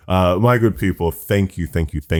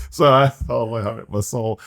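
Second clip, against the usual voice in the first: proud tears; 7 semitones higher than usual. Real, not acted. Overwhelmed, laughing through emotion.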